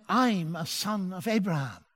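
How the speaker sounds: softened, confidential admission; slightly hushed, discreet disclosure. Retold or imitated. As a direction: confide it softly, as in retelling a secret. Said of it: "and I lowered my voice".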